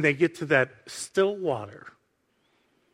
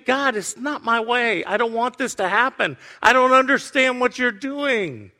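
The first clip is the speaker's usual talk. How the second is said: higher-pitched, mild imitation of crying out; anguished protest to God; 5 semitones higher than usual. Jesus pleading with God in the garden, in raised protest. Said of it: "Jesus is screaming".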